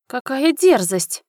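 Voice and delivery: high, drawn-out indignant squeal; shrill aristocratic outrage; outraged shriek. A narrator's reading. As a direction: shriek it slowly as an affronted countess. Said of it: "взвизгнула графиня".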